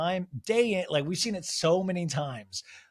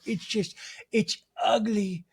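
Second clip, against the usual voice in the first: slow, drawn-out mock British accent, pitched higher; 7 semitones higher, much slower than usual. Host imitating Meredith hinting at something dark, mock British. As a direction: stretch each phrase like an ominous British confession. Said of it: "She's crying in British".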